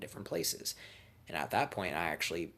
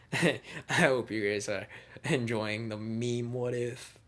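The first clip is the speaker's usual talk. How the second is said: real chuckle running into slowed words; laughing; 3 semitones higher, 4 dB louder, slower than usual. Real, not acted. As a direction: break into a laugh, then keep talking. Amused by own joke.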